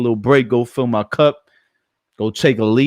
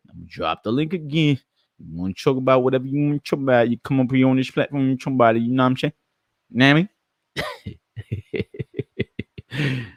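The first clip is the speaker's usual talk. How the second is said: goofy voice; 4 semitones higher than usual. Pretend. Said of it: "my goofy voice".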